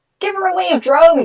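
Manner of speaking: high, yelled call. As a lizard climbs to the helm, Abbigull calls out to Drogue, yelling. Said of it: "yells Abbigull".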